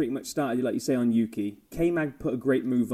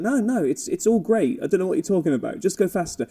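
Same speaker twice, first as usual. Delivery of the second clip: mock engineer; 3 semitones higher than usual. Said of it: "And the engineer's like".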